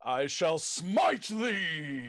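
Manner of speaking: mock biblical prophet. Booming archaic threat.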